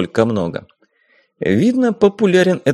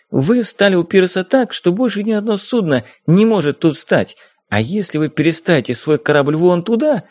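put-on insistent young woman; 5 semitones higher than usual. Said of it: "убеждала кого-то на борту".

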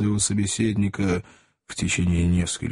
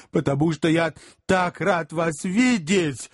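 tearful; 7 semitones higher than usual. A narrator's reading. Job blubbers with fake joy.

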